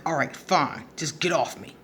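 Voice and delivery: understated, grudging retold surrender; resigned giving in. Worn-out girlfriend finally giving in, resigned. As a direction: give up and ask to be released. Pinned woman gives in third time.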